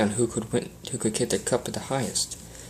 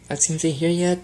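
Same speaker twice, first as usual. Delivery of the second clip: louder, higher, impatient; eager question; 7 semitones higher, 5 dB louder, slower than usual. A narrator's reading. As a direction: ask it bouncing with impatience. Rainbow asks eagerly.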